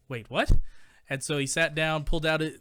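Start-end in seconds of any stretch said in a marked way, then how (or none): 0.1-0.5 loud, stunned double-take; surprised. Retold or imitated. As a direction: blurt it out in shock. Little guy stunned reaction.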